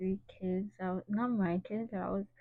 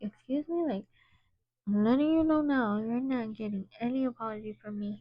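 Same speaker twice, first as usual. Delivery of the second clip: indignant retort; 2 semitones higher, 3 dB louder than usual. Retold or imitated. Teacher snapping back at a rude student, indignant and loud. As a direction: put the cheeky student firmly in his place.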